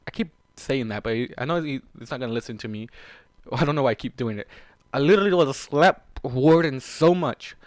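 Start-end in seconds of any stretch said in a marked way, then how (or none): 4.9-7.6 louder and slow, seething; real frustration. Real, not acted. Reader fuming at Warden, slow angry threat. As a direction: grind out the threat through real anger. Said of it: "I'm upset as fuck right now".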